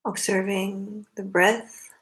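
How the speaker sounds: unhurried meditation guidance in short phrases with long pauses; spacious, measured meditation leader's delivery; guided meditation. Acted. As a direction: guide them gently into the breath, leaving long silences.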